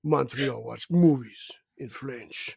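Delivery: put-on lightly done caveman French Canadian accent; broken-English caricature of Reno, half laughing. Friend mocks Reno's taste in a French caveman accent. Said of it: "making him sound like a French caveman".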